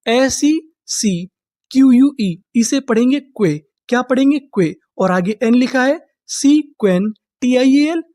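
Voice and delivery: slow letter-by-letter build-up; spelling it out by codes. Shown as a demonstration. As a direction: sound out each chunk for the class. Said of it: "teacher sounds out word by code".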